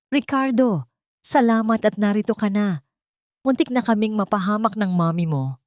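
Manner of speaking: scheming wife greeting her returning husband hysterically. Acted. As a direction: gush at him in a frantic, overwrought rush. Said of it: "Ang hysterical na boses ni Amanda".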